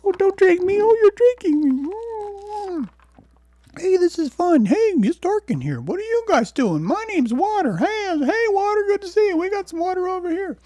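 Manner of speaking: very high, loud squeaky cartoon voice; water spirit chatting from inside a cup, squeaky and loud; talking water voice. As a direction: play the water in the cup, delighted. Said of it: "That's what we tell ourselves, right".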